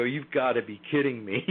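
amused, incredulous retort, breaking into a laugh; retold laughing scoff; laughing disbelief. Guest retells laughing at the entities, amused disbelief. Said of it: "I just started laughing".

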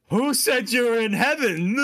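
loud, high, drawn-out gloating with a laugh; mock-sinister reveal, slow and loud; sudden villainous turn. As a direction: imitate a villain's big reveal, then cackle. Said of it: "he changes his fat personality right away".

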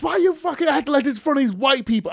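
mock indignant bystander. Woman filming a street fight scolds the teens, mock indignant. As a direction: belt it like a fed-up lady filming a fight. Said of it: "she goes".

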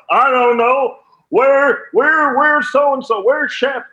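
high, loud and eager mock fan voice; imitating a pushy fan asking for Shep; excited rally fan. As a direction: play an overexcited rally goer. Fans demanding Fox hosts.

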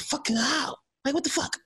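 retold disbelief. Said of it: "I said".

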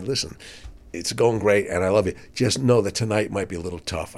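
soft, gentle heads-up; gentle warning. Retold or imitated. Singer gently warning the opening comic before the show, softly. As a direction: break bad news kindly and quietly. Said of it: "a singer says to me".

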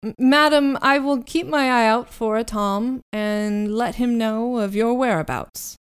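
lightly voiced butler calling after a guest; calling after someone. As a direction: call out the first word, then settle into politeness. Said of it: "You hear him call after you".

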